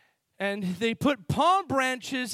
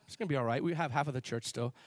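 lower-pitched, easygoing reassurance; imitated unbothered calm; 6 semitones lower, 4 dB quieter, faster than usual. Pastor reassures people after a blast, imitated unbothered calm. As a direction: drop down low and shrug off disaster.

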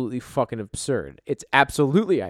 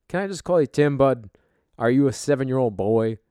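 mocking; 5 dB louder than usual. Host mocking the coworker called Timmy.

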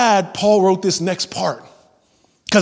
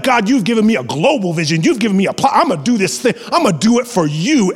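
fired up; 4 semitones higher, faster than usual. Acted. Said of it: "and you're like".

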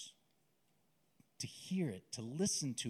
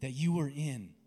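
tender voice of God; 3 semitones higher, 3 dB louder than usual. Acted. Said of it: "God's telling you".

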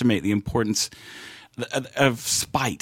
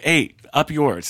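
mock defiance; 4 semitones higher, slower than usual. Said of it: "just like".

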